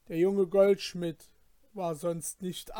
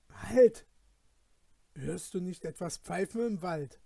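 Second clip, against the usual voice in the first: freeze and listen, frightened; anxious cry; 2 semitones higher than usual. Acted. Felix stops his companion in the forest, frightened. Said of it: "rief Felix ängstlich".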